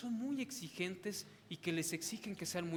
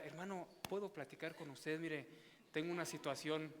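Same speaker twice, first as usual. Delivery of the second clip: softer, humble request to a brother; respectful gentle ask; 3 semitones lower, 6 dB quieter than usual. Shown as a demonstration. Preacher shows the right way to approach his brother, soft and respectful. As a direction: ask him kindly and respectfully. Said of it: "Yo llegaría y diría".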